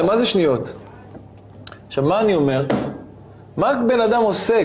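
usual speaking voice

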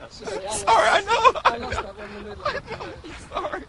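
high giggling apology; apologising through giggles; anchor stifling giggles. Real, not acted. Anchor giggling between takes.

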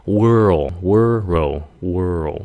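world repeated slowly as wer-rol; rolled-through R-L. Shown as a demonstration. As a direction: roll each "world" from r into a dark l. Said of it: "roll đi".

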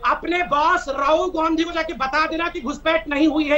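slow, emphatic mock shout; deliberate shout. Real, not acted. Spokesman calling a message to Rahul Gandhi, slow emphatic shout. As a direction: spell it out slowly so the absent boss hears. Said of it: "इतनी जोर से चिल्ला के बोल रहा हूँ".

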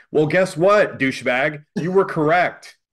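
sarcastic angry comeback; real anger. Real, not acted. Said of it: "but I was pissed".

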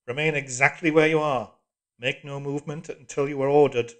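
loud cold order; hard, commanding telescreen voice; iron voice. A narrator's reading. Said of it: "the iron voice".

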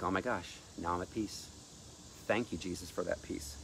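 soft, fading sigh of relief; relieved peace. Retold or imitated. Person freed from torment thanks Jesus, soft and relieved. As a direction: let it settle into quiet thanks.

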